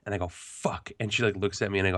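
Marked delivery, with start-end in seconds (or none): 0.3-0.9 unvoiced, under-the-breath fuck; whispered curse. Husband caught by wife with the package, whispered fuck. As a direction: breathe it out, resigned.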